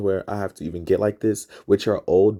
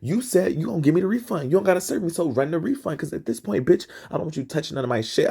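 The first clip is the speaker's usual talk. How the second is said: higher, heated retold protest; rising heated refusal, a bit louder; getting loud; 9 semitones higher than usual. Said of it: "I start getting loud".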